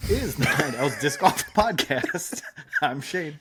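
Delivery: talking right after biting tongue; just bit tongue. Real, not acted. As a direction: speak through a sore bitten tongue. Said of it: "I bit my tongue".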